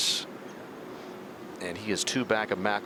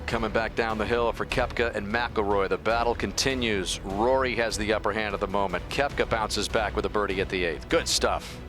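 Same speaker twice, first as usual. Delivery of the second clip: calm hushed golf commentary; golf commentator. Acted.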